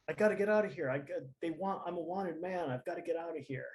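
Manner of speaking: mock scared. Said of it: "I'm trying to look, like, scared".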